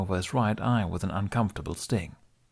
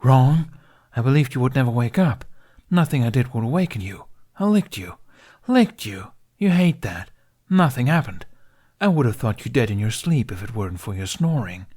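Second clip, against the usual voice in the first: louder, fast, relieved reproach of a sleepy friend; worried dragon; 3 semitones higher, 6 dB louder than usual. A narrator's reading. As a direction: scold him for not waking up, half frantic. Worried dragon scolding his friend.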